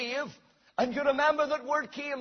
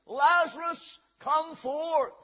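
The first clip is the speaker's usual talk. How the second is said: higher, restrained shout of command; retold shout; 4 semitones higher, slower than usual. Jesus before the grave of Lazarus, mild retold shout. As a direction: call him out with mild force. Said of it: "and he shouted".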